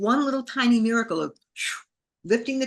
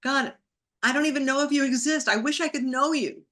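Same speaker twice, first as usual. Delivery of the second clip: higher, insistent appeal; retold plea to God; 6 semitones higher than usual. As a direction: address God, doubting and wishing. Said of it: "And I said".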